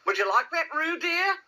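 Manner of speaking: high-voiced musing mother; thoughtful. A narrator's reading. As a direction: wonder aloud, lifting high at the end. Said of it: "said Kanga in a thoughtful voice".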